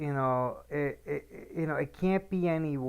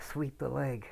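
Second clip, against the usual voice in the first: hushed, soft half-whisper under the breath; 9 dB quieter than usual. Retelling a line from a film blooper, half-whispered to another actor. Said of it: "he just whispers to him".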